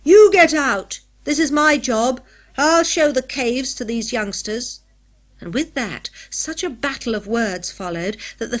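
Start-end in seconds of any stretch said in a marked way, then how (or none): 0.0-4.8 loud, high roar of fury; furious roar. A narrator's reading. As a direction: bellow him out of the cave. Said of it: "he roared in fury".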